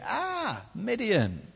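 high, thin mock wail; panicked whinge. Gideon cowering underground in a winepress, panicked. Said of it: "underground in a wine press, going".

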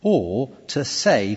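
slow, drawn-out lead into "say"; stress on SAY. Shown as a demonstration. Preacher showing say means claim, slow stress on "say". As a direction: stretch it out and weight "say". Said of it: "by emphasizing the word say".

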